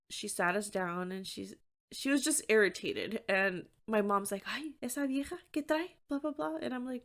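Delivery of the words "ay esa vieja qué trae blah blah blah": mom grumbling. Retold or imitated. Mom grumbling about the server.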